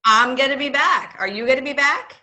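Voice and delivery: puppet voice. Acted. Puppet voice asking host.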